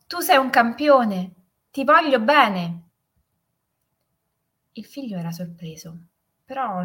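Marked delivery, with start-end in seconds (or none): 0.1-2.8 higher, louder call, slowing at the end; echoed shout. A narrator's reading. Mountain voice answers the father, echoed loving shout. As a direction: ring it back like an echo. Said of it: "E la voce rispose".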